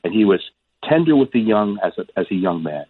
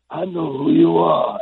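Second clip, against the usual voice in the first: put-on slow, higher-pitched elderly voice; halting old man; 7 semitones higher, slower than usual. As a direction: drag it out as a faltering old man. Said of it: "he speaks haltingly at first".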